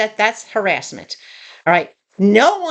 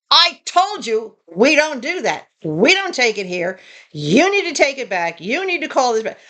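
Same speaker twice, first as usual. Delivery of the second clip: retold flipping out. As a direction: imitate someone suddenly losing patience. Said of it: "he flipped. ... he totally went postal".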